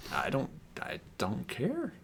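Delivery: soft, exasperated, rising to high squeaks; fed up, pitching up as she repeats it; exasperated dismissal. Real, not acted.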